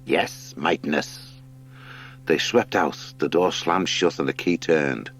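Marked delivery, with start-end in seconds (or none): 0.1-1.4 satisfied fox. Acted.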